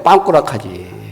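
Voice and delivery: 빵꾸 said low, with a hard ppang for 펑크; Japanese-style punk. Retold or imitated. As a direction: mimic the Japanese way of saying 펑크 as 빵꾸. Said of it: "펑크 발음을 못해".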